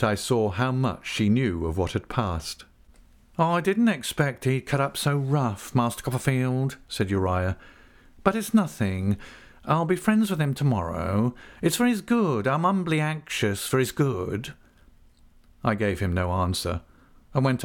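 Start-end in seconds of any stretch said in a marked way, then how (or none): 3.4-14.5 higher, unctuous fawning voice; oily humble clerk. Acted. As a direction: simper it, falsely humble. Uriah's humble oily talk.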